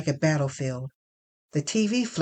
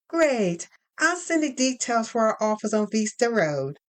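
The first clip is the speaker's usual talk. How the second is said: higher, bright professional phone voice; HR woman on the phone; 5 semitones higher than usual. Acted. Lynn from HR announcing finalist news, higher brisk phone voice. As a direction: sell the good news like a cheerful recruiter.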